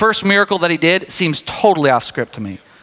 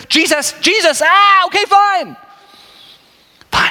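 giving in; 11 semitones higher than usual. Retold or imitated. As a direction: cave in with a huff. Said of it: "she says".

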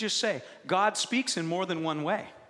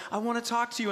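put-on baby talking; 5 semitones higher, faster than usual. Voices babies trying to talk.

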